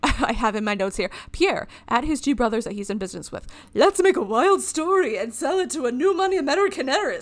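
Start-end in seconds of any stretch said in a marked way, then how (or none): 1.3-7.2 bad attempt at a French accent; haughty mock French accent. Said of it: "I don't know how to do a French accent".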